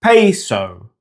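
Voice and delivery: "Peso" as PAY-soh, falling at the end; English pronunciation. Shown as a demonstration. Teacher showing how not to say it, anglicised "Peso". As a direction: say "Peso" with gliding AY and OH. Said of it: "has an O sound".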